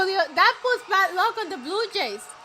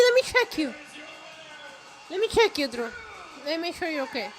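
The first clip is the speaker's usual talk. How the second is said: softly doting over the hurt wrestler; mock tender care; 4 semitones lower, 4 dB quieter than usual. Fussing over bleeding Drew, mock tender. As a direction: coo like a worried partner. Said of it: "I don't know what I'm saying".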